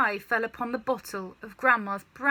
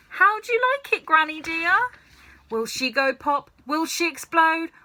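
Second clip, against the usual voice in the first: higher and louder, gleeful sing-song; gleeful taunting; 7 semitones higher, 5 dB louder than usual. Acted. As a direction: crow it out with wicked delight. George gleefully taunts Granny.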